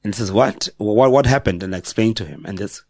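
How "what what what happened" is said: shocked principal. Retold or imitated.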